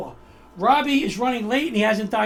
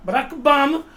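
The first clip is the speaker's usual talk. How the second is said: lightly imitated Sicilian accent; 3 semitones higher, 4 dB louder than usual. Host mimicking his guest's way of saying the name, Sicilian accent. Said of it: "with the Sicilian accent".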